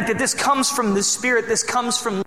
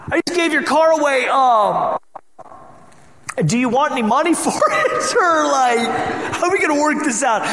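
laughing retelling; 7 semitones higher, 4 dB louder than usual. Retold or imitated. Retelling the call to his friend.

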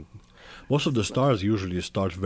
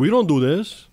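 higher, louder mock protest; hammed-up objection, loud and raised; playful indignation; 8 semitones higher, 8 dB louder, slower than usual. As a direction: insist firmly, only playing. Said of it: "I'm playing it, but I'm saying".

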